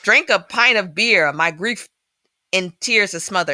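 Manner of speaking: lightly put-on Irish accent, reciting; mild Irish lilt on the lyrics. Shown as a demonstration. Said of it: "saying this with an accent".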